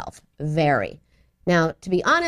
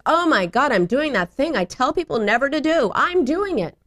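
higher mock dismay at oneself; horrified realization; 5 semitones higher than usual. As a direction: catch yourself, aghast. Mother's retold horrified realization.

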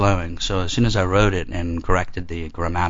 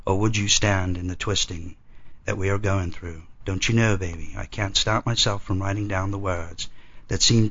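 poetry reading. Acted. Reads his poem aloud.

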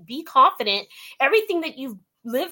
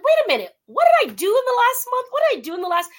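higher, louder mock startle; self-check; 11 semitones higher, 5 dB louder, much faster than usual. Host voicing own sudden second thought, mock startled. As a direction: pull yourself up short, high and loud.

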